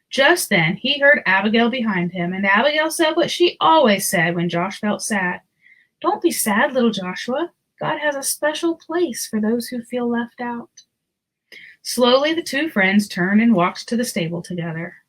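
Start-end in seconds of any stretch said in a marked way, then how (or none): 6.0-10.8 kind and friendly. Acted. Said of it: "her voice was always kind and friendly".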